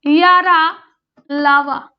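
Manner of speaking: यारा लावा spoken slowly as separate demo syllables; syllables said aloud. Shown as a demonstration. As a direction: sound out यारा then लावा clearly. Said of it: "बोल के आप देख लीजिए". (अक्षरों का स्पष्ट उच्चारण)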